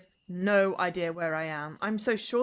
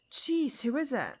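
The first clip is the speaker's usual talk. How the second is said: startled; 7 semitones higher, slower than usual. Acted. Startled by phone vibrating.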